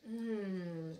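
talking with food in mouth; speaking between bites of cake; chewing while talking. Real, not acted. Seen 1: Bit cake at -2.0; holds piece, mouth working during speech.

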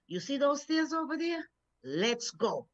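bright, pumped-up challenge; rally yourself like it's a race; eager call to go. Retold or imitated. Preacher retelling how she urged God at the stairs, eager. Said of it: "that's exactly how I said it".

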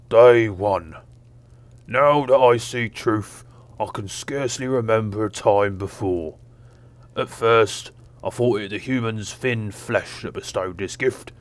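dumb ogre voice; dim giant. Acted. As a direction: read it like a dim-witted ogre. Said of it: "a dumb ogre voice on".

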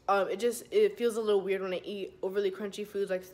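metal braces on teeth; new braces, slight lisp; talking with braces. Real, not acted. Seen 4: Metal brackets and wires visible on her teeth throughout the clip.

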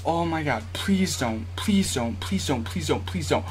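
soft, hushed repeated begging; whisper-plead it, tense; nervous pleading. Real, not acted. Gamer begging the opponent to miss, hushed tense plea.

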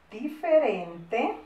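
drawn-out word, every syllable clear; slow dictation. Shown as a demonstration. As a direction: repeat it slowly for pupils writing. Teacher repeats dictated word slowly. (dictado pausado y claro)

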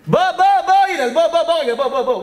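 high rapid-fire beckoning; urgent summons. Acted. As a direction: pester him to come over. Urging Hillel to come out. (זירוז נמרץ בקול גבוה)

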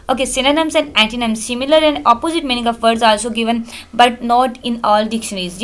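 reading English text aloud, word by word; slow textbook reading. Acted. Teacher reading the book slowly to students. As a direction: dictate slowly to the class.

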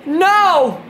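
high loud frightened scream; scared scream. Real, not acted. Horror game jump scare.

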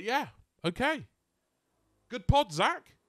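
high, loud, rousing wrap-up; upbeat sign-off. Real, not acted. Host congratulating co-host at the end, excited sign-off. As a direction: call it out high and loud to close the show.

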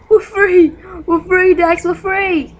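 high, loud cry of freedom; joyful relief. Real, not acted. Gamer cheering as the sun comes up. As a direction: celebrate the sunrise out loud.

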